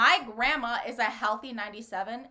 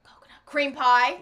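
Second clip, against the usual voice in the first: mock deadpan delivery; 2 semitones higher, 8 dB louder than usual. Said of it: "they deliver it like".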